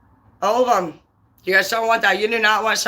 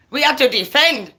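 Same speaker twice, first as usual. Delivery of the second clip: real, heated indignation; fired-up angry rant; pissed off; 3 semitones higher than usual. Real, not acted. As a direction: get worked up and rant. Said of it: "I'm sorry, I'm all pissed".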